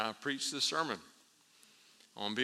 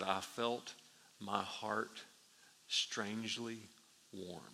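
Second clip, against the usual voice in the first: hushed testimony; 6 dB quieter, slower than usual. Retold or imitated. Hushed quote of Wesley's testimony.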